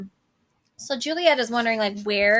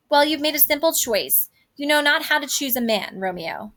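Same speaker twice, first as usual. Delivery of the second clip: teasing; 4 semitones higher than usual. Acted. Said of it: "kinda fooling around".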